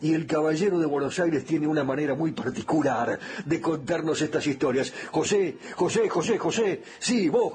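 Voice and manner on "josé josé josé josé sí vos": calling someone over. Pretend. Calls the co-host to take over.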